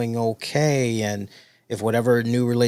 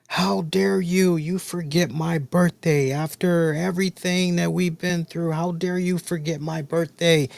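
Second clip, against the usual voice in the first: imitating crying ex-wife; 5 semitones higher than usual. Late ex-wife calling at midnight over her forgotten birthday, mock tearful scolding. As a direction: voice the ex-wife's tearful reproach lightly. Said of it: "she was bawling her eyes out".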